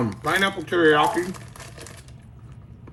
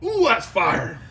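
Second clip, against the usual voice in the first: high pained ooh; 8 semitones higher than usual. Real, not acted. Spice burn hits again.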